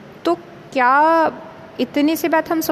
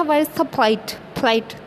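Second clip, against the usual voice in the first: put-on foreign English accent; much slower than usual. Teacher retelling the wedding guest's question, mock British accent. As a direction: imitate the London guest asking for his plate in a British accent. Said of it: "तो उसका accent था".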